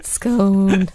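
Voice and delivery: "Scone" with a drawn-out long O; scone rhyming with bone. Shown as a demonstration. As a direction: stretch "Scone" to rhyme with moan. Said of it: "Most people say scone".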